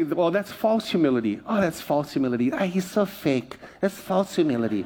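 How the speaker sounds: scoffing at fake humility; mild mock scoff; mocking critic. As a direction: sneer like a gossip. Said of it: "you've heard people say".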